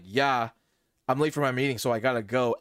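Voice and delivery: matter-of-fact brush-off; retold unfazed reply, eager to leave; unexcited. Hit by a car but late for a meeting, unexcited. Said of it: "I wasn't as audibly excited".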